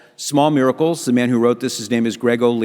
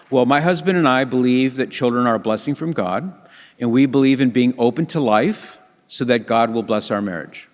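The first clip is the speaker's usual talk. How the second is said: calm, even statement without emphasis; low-key matter-of-fact; 3 semitones lower than usual. Retold or imitated. Wife answers the staring waitresses, low-key and matter-of-fact. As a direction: say it simply, as plain fact. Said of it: "in a very low-key, matter-of-fact tone of voice".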